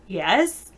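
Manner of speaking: "Yes" with a questioning rise, asking not agreeing. Shown as a demonstration. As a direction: say "Yes" as a query, pitch lifting at the end. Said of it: "even though I'm saying it as a question".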